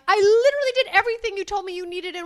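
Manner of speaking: high, loud indignant protest; mock exasperated self. Husband retelling to wife, indignantly protesting his innocence. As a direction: whine it out, wronged and confused. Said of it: "and I'm like".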